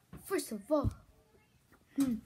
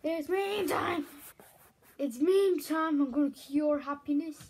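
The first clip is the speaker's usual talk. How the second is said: excited catchphrase; 2 semitones higher, 4 dB louder than usual. Retold or imitated. Vlogger imitating Jacksepticeye's meme time intro, hyped and loud.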